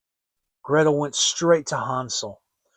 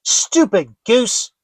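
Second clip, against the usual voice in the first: slow, louder scornful witch; 6 semitones higher, 7 dB louder, slower than usual. Acted. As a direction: spit the insult like an impatient hag. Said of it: "said the old woman".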